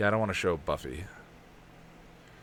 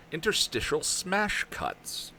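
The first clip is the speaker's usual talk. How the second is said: slow careful; 7 semitones higher, slower than usual. Shown as a demonstration. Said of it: "That's not difficult to say".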